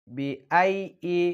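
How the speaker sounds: বিআইয়ি slowly with a firm, doubled ইয়ি. Shown as a demonstration. Teacher showing the firm ইয়া. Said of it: "সবসময় শক্ত করে উচ্চারিত করবেন".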